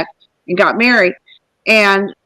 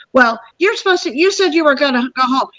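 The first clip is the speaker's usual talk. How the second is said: retold insistent complaint, pitched higher; annoyed husband; 4 semitones higher than usual. Husband telling his wife to go home, getting mad. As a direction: imitate a husband getting mad, mildly heated. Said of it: "getting all mad at me".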